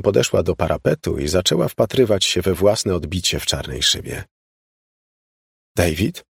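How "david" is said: odd, questioning rise; strange voice. A narrator's reading. Mother suddenly addresses father at the window, strange voice. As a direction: call the name in a slightly strange voice. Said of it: "odezwała się nagle dziwnym głosem".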